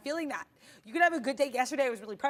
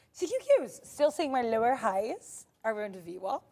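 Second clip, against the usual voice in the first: silly put-on voice. Trader reading out the chart for live viewers, silly put-on voice. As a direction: slip into a lightly silly, drawn-out voice. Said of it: "I don't know why I use that voice".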